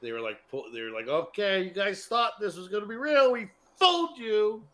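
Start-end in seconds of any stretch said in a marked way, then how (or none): 1.1-4.6 mock gloating filmmakers. Mocking the filmmakers' voice.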